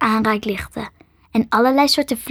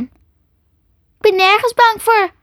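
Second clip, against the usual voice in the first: high, louder, slow protest; defiant girl; 10 semitones higher, 5 dB louder, much slower than usual. A narrator's reading. Girl lies to a strange creature, high and defiant.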